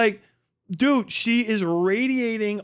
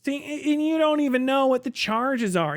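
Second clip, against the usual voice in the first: higher, smug gotcha line; lightly voiced smug debater; a hint of mocking Andrew Wilson; mock debater impression; 5 semitones higher than usual. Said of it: "Andrew Wilson impersonating fucking Destiny".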